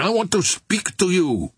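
high-pitched call down to someone; shouted. A narrator's reading. Officer asking an armed sailor to parley, shouting. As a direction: call it out high, falling at the end. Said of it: "he shouted".

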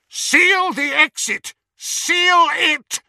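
high, loud, slow yelled command; shouted order. A narrator's reading. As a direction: bark it across the atrium. Yaxley yelling orders.

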